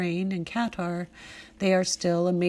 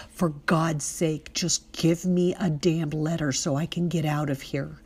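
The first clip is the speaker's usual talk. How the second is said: raised, no longer sweet. Retold or imitated. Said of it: "My voice raised and no longer sweet".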